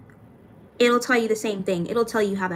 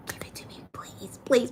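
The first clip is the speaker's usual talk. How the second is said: a pleading whisper; hushed, breathy plea; whispered begging; 6 dB quieter than usual. Real, not acted. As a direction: beg softly in a whisper. Begging viewers for a bus pass.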